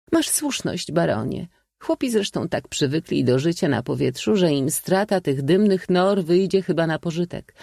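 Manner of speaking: high-pitched lady's voice; Lawinia. A narrator's reading. Lady agreeing with the baron, high-voiced. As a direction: speak up high, as a society lady.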